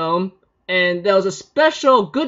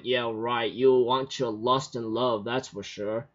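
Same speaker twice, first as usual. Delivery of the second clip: sarcastic inner aside; 8 semitones lower, 8 dB quieter than usual. Retold or imitated. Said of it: "I'm thinking in my mind".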